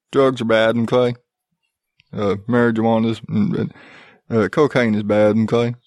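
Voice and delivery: lightly voiced cartoon-teacher impression; half-hearted lecture with a tacked-on mm-kay; bad Mister Garrison. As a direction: do a poor impression of a preachy teacher. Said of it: "my Mister Garrison sucks".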